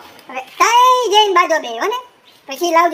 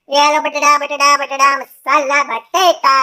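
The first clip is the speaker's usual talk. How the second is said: hawker call; 2 semitones lower, slower than usual. Acted. Street vendor calling out wares.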